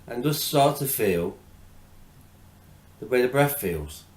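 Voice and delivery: measured, spacious meditation coaching; guided meditation. Acted. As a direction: gently guide attention to the breath, unhurried. Leads a breathing meditation.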